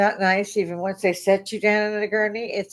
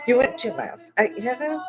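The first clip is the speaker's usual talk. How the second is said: higher-pitched, incredulous challenge; indignant retort; 5 semitones higher than usual. Retold or imitated. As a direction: argue back at the billing company in mock indignation. Imagined argument with ambulance company.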